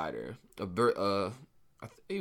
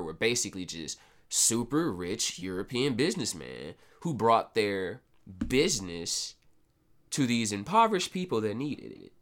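dry mock praise; sarcastic. Real, not acted. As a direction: say it with a sarcastic edge. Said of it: "I'm obviously being sarcastic".

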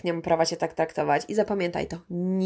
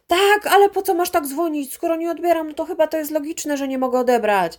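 higher, exasperated mock of an annoyed boyfriend; imitating him snapping back, mildly; irritated boyfriend; 7 semitones higher than usual. Boyfriend annoyed at her repeated calls, mild mock exasperation. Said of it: "zirytowany, wkurzony głosem".

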